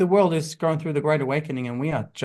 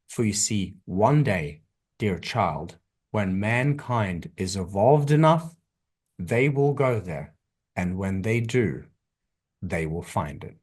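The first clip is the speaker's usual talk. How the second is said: slow and low, leaning in close, fading at the end; a hint of a tender father figure, slowing down; gentle loving creator; 5 semitones lower, slower than usual. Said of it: "kneels down, leans in, smiles, and says".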